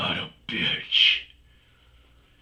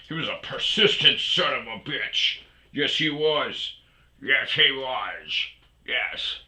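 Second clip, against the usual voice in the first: pet talk; 6 semitones higher, 5 dB louder than usual. Real, not acted. Praising the dog in pet voice.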